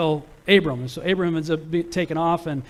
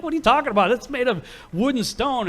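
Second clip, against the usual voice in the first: exasperated dad; 7 semitones higher than usual. Retold or imitated. Father retorts to son.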